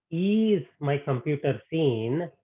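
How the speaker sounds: slow question, weight on "computer seen"; unhurried question pointing at "computer seen"; stress on COMPUTER SEEN. Shown as a demonstration. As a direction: spell out "computer seen" slowly. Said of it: "the emphasis there is on the computer".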